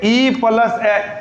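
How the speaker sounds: ई plus ए stretched slowly; drawn-out vowel demo; slow sounding out. Shown as a demonstration. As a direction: let ई glide into ए. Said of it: "बोल के देख".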